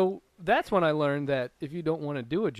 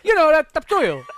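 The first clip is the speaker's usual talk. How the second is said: loud, high insistence, "topsoil" as tup-SOIL; misplaced stress; 11 semitones higher, 10 dB louder than usual. Acted. Misunderstood customer insists loudly, "topsoil" stressed on SOIL. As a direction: hammer the second syllable of "topsoil" as if it were obvious. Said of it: "I put the wrong emphasis".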